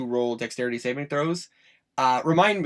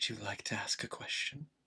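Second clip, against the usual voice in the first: hushed, breathy, whispered skeletal vampire voice; 3 semitones lower, 14 dB quieter than usual. Voicing a skeletal vampire who taunts the players: skeletal vampire voice. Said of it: "He looks at you and goes".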